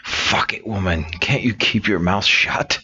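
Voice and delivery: hissed words pushed through clenched teeth; a touch of teeth-gritted anger. Acted. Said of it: "says through the clenched teeth".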